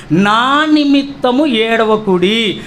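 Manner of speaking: very slow, every syllable drawn out; solemn scripture quotation. Retold or imitated. Preacher repeats Jesus' saying to the congregation, slow and solemn. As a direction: stretch the verse out with weight.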